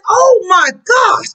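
amazed and overjoyed, voice cracking; Jesus marvelling at the centurion's faith; excited. Acted. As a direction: burst out in delighted wonder. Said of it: "Jesus got excited".

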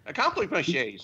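"Accomplishment shades" slurred into one mangled word; mimicked mispronunciation. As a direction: imitate a denture-swallowing slip on "Accomplishment shades". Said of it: "like he was swallowing his dentures".

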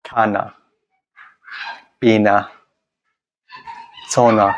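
खाना, पीना, सोना said slowly with the face stretched wide; words said through a wide smile, one at a time. Shown as a demonstration. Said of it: "यानी stretch करेंगे".

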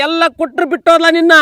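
high, loud outrage; indignant outburst. Acted. Friend shocked that the wife left, indignant outburst. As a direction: build to a disbelieving cry.

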